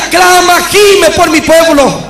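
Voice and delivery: drawn-out, pleading cry as God; imitated lament. God calling Ricardo to intercede, imitated lament. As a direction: stretch it slowly into an imitated anguished plea. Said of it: "una voz como lamento".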